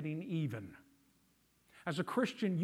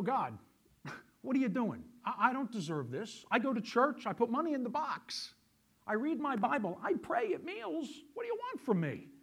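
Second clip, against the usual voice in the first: mock whiny complaint; 4 semitones higher, 3 dB louder than usual. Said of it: "You go".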